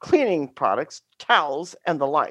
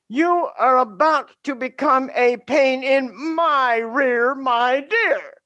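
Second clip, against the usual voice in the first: lightly voiced Southern twang, higher; 9 semitones higher than usual. Student answers teacher in a light Southern twang. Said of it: "he said in that Southern twang".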